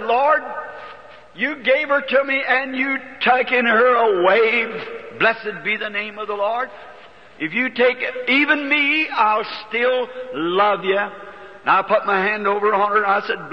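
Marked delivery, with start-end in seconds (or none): 0.0-11.0 fervent prayer. Retold or imitated. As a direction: cry out to the Lord in surrender. Surrendering prayer, rising fervor.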